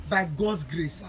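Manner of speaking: loud and sure of himself, rallying; confident loud promise. Real, not acted. Charity host loudly promising supporters a TV, confident. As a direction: proclaim it boldly to the viewers. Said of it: "Do you know why I'm speaking like this?".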